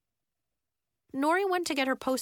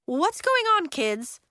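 put-on higher, louder call to kids; teacher calling; 9 semitones higher, 5 dB louder, slower than usual.

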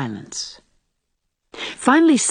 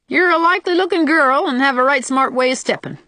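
higher-pitched rustic voice; country suitor; 8 semitones higher than usual. A narrator's reading. Sam explains to Anne why he picked her, rustic. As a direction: pay homely compliments as a rustic suitor.

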